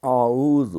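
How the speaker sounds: اللہم drawn out very slowly, chanted; recitation. Shown as a demonstration. Teacher recites prayer slowly for students. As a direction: intone اللہم in long recitation. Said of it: "ان کو پہلے ہم ایک دفعہ پڑھیں گے".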